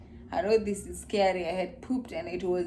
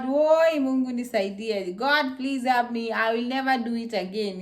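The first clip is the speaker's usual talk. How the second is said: retold desperate prayer. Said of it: "I'm just praying, telling God".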